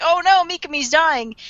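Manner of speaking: hammed-up "oh no" of a crowd; mock alarm. Voicing panicked onlookers.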